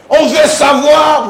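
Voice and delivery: drawn-out, high mock shout; imitated crying out. Mimicking the man demanding to know, crying out. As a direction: cry it out slowly, imitating a loud demand. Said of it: "l'homme a tout crié".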